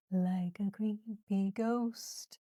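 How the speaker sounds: very slow, spooky whisper; creepy ghost whisper. Pretend. Teacher creeping round like a ghost, spooky whisper. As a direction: creep through the words in a drawn-out whisper. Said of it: "I'm gonna creep it round".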